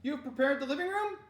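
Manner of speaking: loud, meaningful uncle's voice; grave uncle. Acted. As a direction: say it with hidden weight. Henrik asks.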